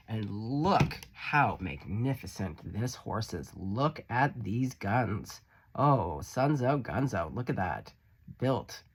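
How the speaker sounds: admiring slow. Real, not acted. Admiring horse card.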